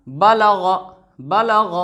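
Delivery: बलग crisp and short; quick three-beat बलग; short vowels, read quickly. Shown as a demonstration. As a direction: recite बलग briskly, no vowel held. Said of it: "इसका सही तरीका".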